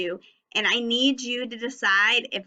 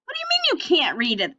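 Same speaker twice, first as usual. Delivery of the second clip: mock disbelief; 5 semitones higher, much faster than usual. Mock surprise at mixed sentence.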